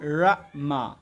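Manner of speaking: রা, মা in separate beats with the r voiced; teacher drilling the r in রা, মা; American, sounded out. Shown as a demonstration. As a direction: break off রা and মা clearly. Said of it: "তাহলে কি হবে".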